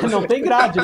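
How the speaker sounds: laughing through the words. Real, not acted. Repeats with laugh.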